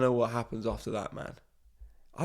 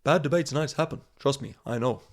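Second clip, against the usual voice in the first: light imitation of Obama's American accent; a lightly attempted American statesman's accent; Barack Obama. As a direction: read it as a rough American presidential impression. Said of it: "I'll try and do it in his accent".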